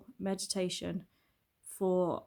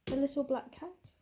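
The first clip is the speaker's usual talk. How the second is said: higher-pitched, affectionate lilt; cooing at pet; 7 semitones higher than usual. Real, not acted. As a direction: lift the voice for the cat. Vlogger turns to her cat.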